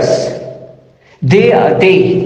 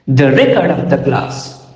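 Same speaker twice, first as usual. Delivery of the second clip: "record" as a noun, REC-ord; stress on first syllable; 5 semitones lower than usual. Shown as a demonstration. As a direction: put the beat on REC in "record". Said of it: "stress will be on the first syllable".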